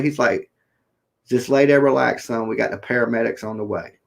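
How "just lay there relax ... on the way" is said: calm. Retold or imitated. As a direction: soothe him like a cop at a wreck. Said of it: "the state trooper real calmly".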